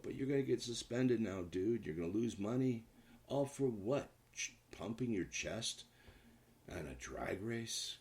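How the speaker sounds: high-pitched, incredulous telling-off; exasperated scolding. Pretend. Host to a young player about drag racing, exasperated scolding.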